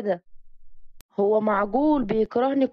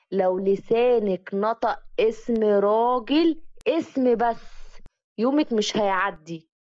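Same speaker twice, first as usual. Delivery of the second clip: slow menacing threat; slower than usual. Acted. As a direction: drag each word out, slow and cold. Jealous cousin repeats his threat. (تهديد بطيء وبارد)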